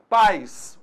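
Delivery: "Pais" as a single syllable, the i gliding off; one-syllable pais. Shown as a demonstration. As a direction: say "Pais" in one beat, falling glide at the end. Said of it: "pais, só tem a vogal A".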